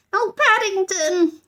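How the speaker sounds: high slow exclamation; high drawn-out girl's cry; anxious cry. A narrator's reading. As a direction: gasp at the wet bear. Judy relieved/worried.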